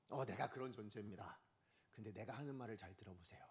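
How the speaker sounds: low, soft, measured address; lightly voiced composed apostle. Preacher imagining an apostle playing along with crowd, quietly composed.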